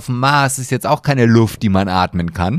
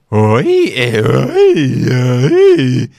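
squeaky voice crack; 8 dB louder, much slower than usual. Shown as a demonstration. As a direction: show a boy's voice cracking mid-word. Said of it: "diese Fiepske-Stimme oder dieses".

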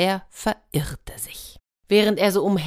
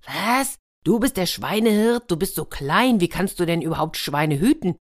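ruler's incredulous, raised-pitch question; astonished disbelief; 2 semitones higher, 3 dB louder than usual. Acted. Ruler astonished at tiny swineherd.

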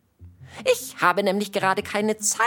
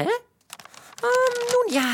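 silly clown; much slower than usual. Acted. Caught, stalling for an answer.

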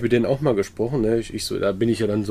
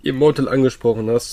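voice giving out. Real, not acted. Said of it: "meine Stimme versagt grad ein bisschen".

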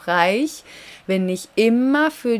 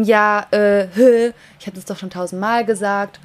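a touch of exasperation; mock impatience, lightly played; mildly snippy; 4 dB louder than usual. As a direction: act out a slightly irritated inner voice. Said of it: "jetzt bin ich so ein bisschen zickig".

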